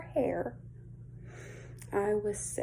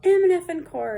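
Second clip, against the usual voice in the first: high-pitched mock scream, quoting a furious mother; 11 semitones higher, 5 dB louder than usual. Camper imitates neighbor mom screaming at her kids, high mock shriek. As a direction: shriek it much higher, imitating her rage. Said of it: "she's still in there screaming".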